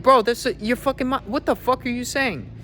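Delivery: high-pitched, disbelieving outburst to the guy; incredulous retelling. Retold or imitated. Telling the out-of-shape guy off in disbelief, high and incredulous. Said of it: "I was like".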